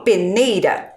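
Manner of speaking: peneira with a light tapped R; weak R. Shown as a demonstration. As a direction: peneira as a teacher's example of weak R. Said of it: "eu falo um R fraco".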